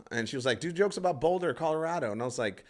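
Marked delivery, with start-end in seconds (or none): 0.6-2.1 higher mock heckler voice; imitated audience member, pitched up; heckling lady. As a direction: repeat the request in a raised pitch. Voicing the lady repeating her request.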